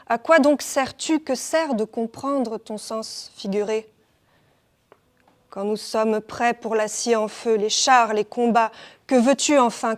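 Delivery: emphatic verse in short, measured phrases; poetry recitation. Acted. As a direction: declaim it line by line, easing off at the end. Recites French translation of poem. (déclamation poétique)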